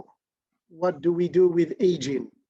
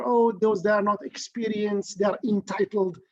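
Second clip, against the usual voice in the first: mocking quote; 3 semitones higher than usual. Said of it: "this horrible, you know, description".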